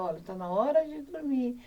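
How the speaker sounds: put-on calm, even bedtime talk to a child; gentle but firm parent at bedtime; calm reassurance. Shown as a demonstration. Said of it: "Você tem que falar calmamente com ela".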